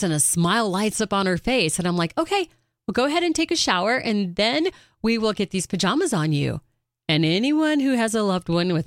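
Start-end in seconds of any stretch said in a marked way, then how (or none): 2.2-6.6 high, quick, bright nudging; cheerful urging. Retold or imitated. Daughter nudging her mother into the shower, high and quick. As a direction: hurry her along with a cheery push.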